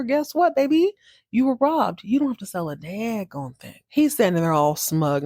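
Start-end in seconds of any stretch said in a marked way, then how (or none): 0.0-3.8 sweet-talking. Retold or imitated. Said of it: "Tell her".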